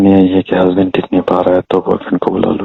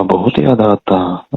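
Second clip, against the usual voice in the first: drawn-out sarcastic echo; mocking echo; slower than usual. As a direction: repeat it slowly, disbelieving. Mocks the caller's claim of missing him.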